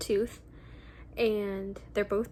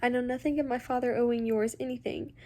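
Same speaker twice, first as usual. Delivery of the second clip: Henry explaining; 3 semitones higher than usual. Acted. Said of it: "he said".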